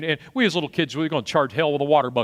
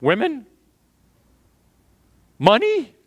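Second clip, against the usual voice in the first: eager David; 7 semitones higher, slower than usual. Retold or imitated. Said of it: "little Davy looks up and goes".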